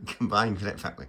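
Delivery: "Combined Cadet Fa-" broken off at the last word; stumbling attempt. Real, not acted. Vlogger fumbling his cadet unit's name, stumbling and breaking off. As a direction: trip on the end of "Combined Cadet Fa-".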